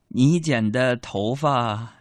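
slow careful words. Retold or imitated. Carefully telling mom.

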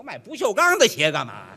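indignant shout. Real, not acted. Indignant at absurd stainless shoes.

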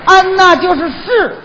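Dongbei 嗯呐 with Northeast tones; Northeast dialect. Acted. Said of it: "这是您那儿的方言是吧？".

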